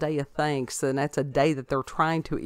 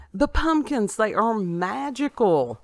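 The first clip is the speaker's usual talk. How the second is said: playful high voice; 6 semitones higher, 3 dB louder than usual. Pretend. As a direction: sell it like a cheerful ad. Playful pumpkin praise, high.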